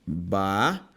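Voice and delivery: "Bafômetro" said low and split into syllables, ba-fô-me-tro; syllable-split word. Shown as a demonstration. Teacher splitting a word into syllables for students, low. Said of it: "separa pra mim bafômetro".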